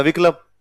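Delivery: विकल्प with a vowel before the final p, "vi-ka-lap"; wrong pronunciation. Retold or imitated. Student repeating the teacher's word, विकल्प said as vikalap. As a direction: break the cluster in विकल्प as "vikalap". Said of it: "आधे अक्षर नहीं बोल पाते".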